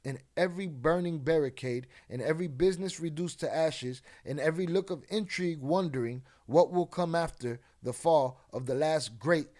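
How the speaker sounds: dramatic news report reading. Acted. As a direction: read it like a TV news bulletin. Reads a news report aloud.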